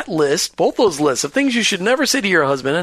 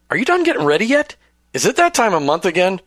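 acted nagging, pitched up; mock impatient husband; 3 semitones higher than usual. Host voicing what husbands should never ask wives, mock impatient. Acts husband's hurtful questions.

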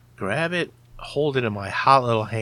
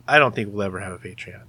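normal talking voice

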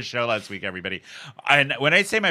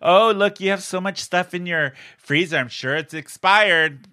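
a touch higher, lightly mocking judgy mother; passive-aggressive mom; 5 semitones higher than usual. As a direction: needle gently like a judging mom. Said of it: "just very passively, like".

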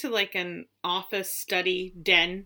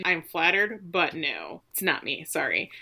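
put-on low dry old lady voice; 3 semitones lower than usual. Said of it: "Lady D says".

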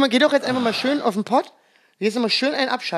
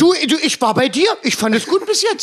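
mock comedian verdict; 5 semitones higher than usual. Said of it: "Und ihr da mal kurz sagt".

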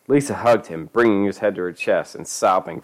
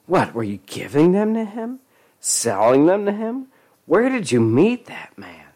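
high angry mother voice; 10 semitones higher than usual. Acted. Mother interrogating.

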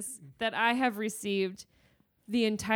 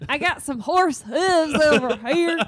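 American hick; 5 semitones higher, 7 dB louder than usual. Pretend. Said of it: "We would say more like the hooves".

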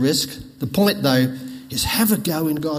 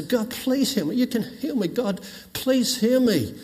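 pleading prayer; 7 semitones higher than usual. Retold or imitated.

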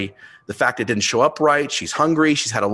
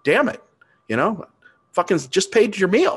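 higher, exasperated mock rant; irritated outburst; 7 semitones higher than usual. Father retelling snapping at daughter over meal, exasperated. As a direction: replay the angry dad losing patience. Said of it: "I'm starting to get irritated".

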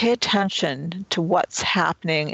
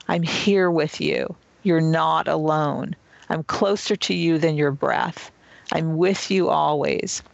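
nurturing inner voice. Shown as a demonstration. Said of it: "here comes the inner nurture now".

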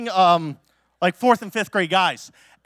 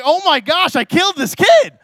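higher, louder alarmed gasp; mock panic; 10 semitones higher, 5 dB louder than usual. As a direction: freak out that you broke him. Panics the kid is dead.

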